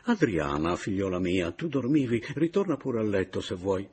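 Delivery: ingratiate yourself with the lodger; lightly voiced fawning Papiano.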